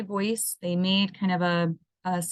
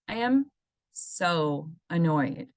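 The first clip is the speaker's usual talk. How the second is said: annoyed; slower than usual. Shown as a demonstration. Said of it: "using kind of that emotional emphasis".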